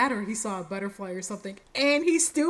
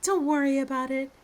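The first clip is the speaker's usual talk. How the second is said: Huntress laying it on thick; 2 semitones higher than usual. Acted. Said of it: "she's laying it on thick".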